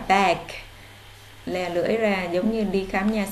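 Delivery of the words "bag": "bag" with a wide open a, tongue pushed forward. Shown as a demonstration. Teacher showing pupils the a sound, tongue out. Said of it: "Các bạn đọc chữ A lè lưỡi ra".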